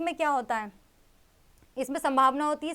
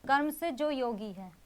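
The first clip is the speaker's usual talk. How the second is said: slow breakdown. Shown as a demonstration. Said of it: "कर्म plus योगी".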